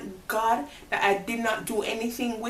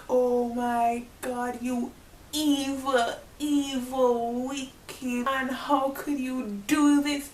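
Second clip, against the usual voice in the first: high, slow, pained cry of betrayal; anguished outcry; 4 semitones higher, slower than usual. Retold or imitated. Crying out at the boyfriend who hid his marriage, high and anguished. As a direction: wail at him like he broke you.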